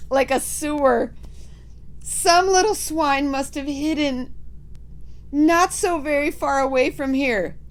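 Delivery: high, loud disgusted witch; disgusted witches. Acted. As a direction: cry out in disgust.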